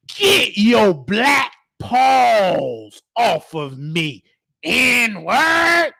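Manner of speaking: put-on slow, commanding old patient's sneer; with authority. Elderly dementia patient scorning the new aide, slow and commanding. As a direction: hand down the insult slowly, like an order. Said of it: "she said it with authority".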